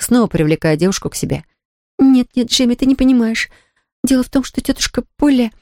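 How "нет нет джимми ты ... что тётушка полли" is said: mumbled. A narrator's reading. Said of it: "пробормотала Полианна".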